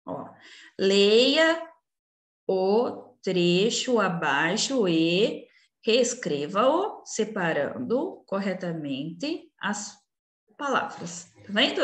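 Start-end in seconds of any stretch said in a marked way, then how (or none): 0.8-11.2 slow, with a pause after each word from "Leia" to "palavras". Shown as a demonstration. Teacher showing pupils where words separate, slowly word by word. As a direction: set every word apart, unhurried. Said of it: "Eu separei cada palavra".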